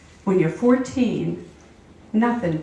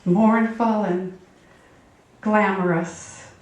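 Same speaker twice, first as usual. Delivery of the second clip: actressy; slower than usual. Pretend. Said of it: "Kind of actressy like Bette Davis".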